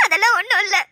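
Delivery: tearful denial; weepy, holding back the trouble; crying. Acted. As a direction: brush it off through sobs. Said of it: "பிறவு ஏன்டி அழுவுற?".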